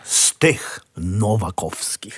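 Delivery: slow, dry jibe; mocking. Nephew teases uncle about the premier's surname, mocking. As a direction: draw the surname out in mockery. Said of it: "No już nie drwijcie".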